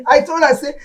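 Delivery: high, very loud banter; amused excitement. Acted. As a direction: exclaim loudly through the fun. Laughing banter over the gift dress.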